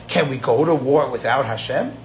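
"Can we go to war without Hashem?" asked, rising at the end; question tune. Shown as a demonstration. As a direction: put a question mark on "without Hashem?", voice lifting. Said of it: "David said it as a question".

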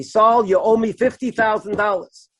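mildly angry retold demand; a touch of accusing anger, only lightly acted; angry caller. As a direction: imitate an angry father on the phone. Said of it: "in a very angry voice".

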